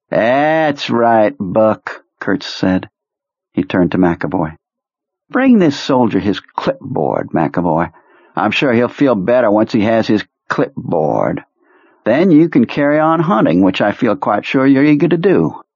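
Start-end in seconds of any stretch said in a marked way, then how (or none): 0.1-2.0 put-on much higher, theatrical old commander; high eccentric officer voice. Kurtz voice. 5.3-15.6 put-on much higher, theatrical old commander; high eccentric officer voice. Kurtz voice.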